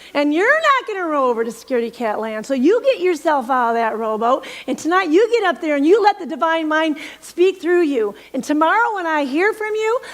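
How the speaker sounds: lightly voiced sassy friend scolding; a hint of a teasing, bossy friend; prayer partner. Prayer partner teasing her out of her fear, lightly voiced sass. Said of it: "She goes".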